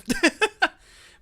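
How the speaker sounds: high, loud burst of laughter. Real, not acted. Laughs at game moment.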